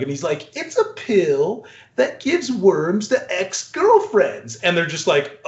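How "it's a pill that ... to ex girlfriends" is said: crazy scientist. Retold or imitated. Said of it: "plays this crazy scientist".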